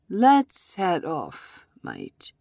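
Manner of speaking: slow, easy and unhurried; calm. Acted. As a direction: say it calmly, no rush. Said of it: "he said calmly".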